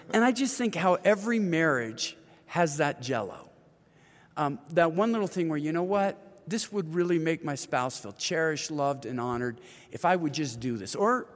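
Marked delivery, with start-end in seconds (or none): none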